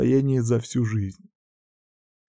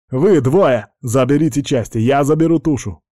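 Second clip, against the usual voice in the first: loud commanding call; barked orders; 4 semitones higher, 4 dB louder than usual. Acted. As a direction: order the soldiers to move.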